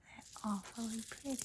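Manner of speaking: imitated American "awfully pretty", open first vowel; playful whispered American accent. Shown as a demonstration. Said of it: "here you'd say".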